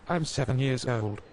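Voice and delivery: put-on high, timid child voice; scared little boy. A narrator's reading. Frightened boy answering the policeman, high and timid. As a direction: squeak it out like a frightened kid. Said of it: "Max answered with tears of fear in his eyes".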